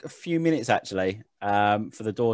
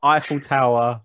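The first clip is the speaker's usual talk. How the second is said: slow, hammed-up French accent, pitched a touch up; a lightly done stereotype French old lady, dragged out; mock French accent; 3 semitones higher, 5 dB louder, slower than usual. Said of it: "I can't do the Bretonian accent".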